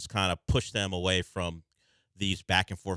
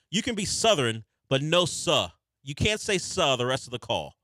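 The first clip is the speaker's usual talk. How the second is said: mock outrage; 6 semitones higher, 3 dB louder than usual. Real, not acted. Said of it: "I'm not gonna allow".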